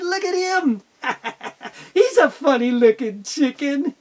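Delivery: high, mocking giggly chicks; laughing chicks. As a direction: tease him through laughter. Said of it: "they started to laugh".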